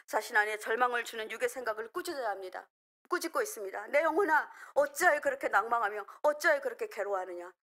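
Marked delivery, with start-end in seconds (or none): 3.9-7.5 rebuking one's soul. Acted. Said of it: "이렇게 꾸짖고 있습니다".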